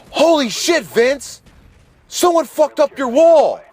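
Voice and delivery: very high-pitched, put-on shock; mock astonishment. Drunk Joe telling Vince about the wall, high mock astonishment. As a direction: play the oblivious drunk discovering damage in a high voice. Oblivious drunk friend sees the hole.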